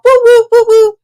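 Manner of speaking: loud, high-pitched celebratory whooping; mock cheering woos. Mimicking speakers who share the good, mock cheering.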